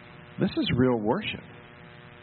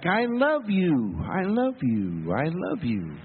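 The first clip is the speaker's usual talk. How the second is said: fading echo; 4 semitones higher, slower than usual. Retold or imitated. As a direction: let each repeat fall away like a canyon echo. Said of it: "the canyons echoed it right back".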